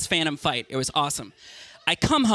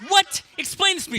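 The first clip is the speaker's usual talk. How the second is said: mock shocked disbelief; incredulous; 10 semitones higher than usual. Boyfriend shocked at his girlfriend's claim, incredulous.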